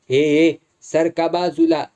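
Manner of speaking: a loud gruff "move aside"; gruff order. Acted. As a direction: bark the crowd out of the way. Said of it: "असं त्यानं दरडावल्यावरती".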